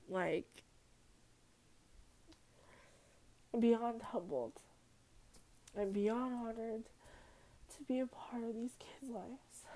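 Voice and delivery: real emotion, voice lifted and close to tears; fighting back tears while saying thank you; getting emotional. Real, not acted. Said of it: "sorry, I'm gonna get emotional".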